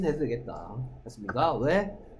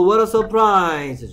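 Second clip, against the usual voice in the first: loud, higher exclamation; surprised; 3 semitones higher, 8 dB louder, much slower than usual. Shown as a demonstration. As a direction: act amazed. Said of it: "깜짝 놀라는 말". (깜짝 놀라며)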